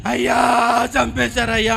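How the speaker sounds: keening, put-on cry; imitated crying. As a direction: act a grieving woman's lament. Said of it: "ఎందుకు ఏడుస్తున్నాడు".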